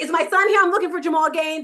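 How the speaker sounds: fast, rushed, frantic, desperate speech. Mother retelling asking the police for her son, retelling her frantic panic. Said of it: "And I'm frantic".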